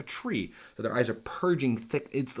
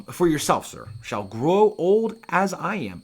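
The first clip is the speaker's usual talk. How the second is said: put-on slow, higher, creaky old man; 7 semitones higher, 6 dB louder, slower than usual. Hamlet's line read aloud.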